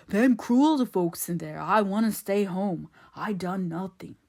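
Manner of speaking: slow, plaintive dialect voice; frightened simpleton Ben. A narrator's reading. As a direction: plead innocence like a scared simpleton. Ben's simpleton voice.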